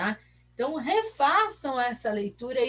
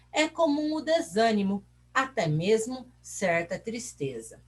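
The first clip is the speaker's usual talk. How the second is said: measured textbook reading to pupils; reading aloud. Acted. Teacher reads the report to pupils, measured reading aloud. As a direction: read the passage out clearly, phrase by phrase.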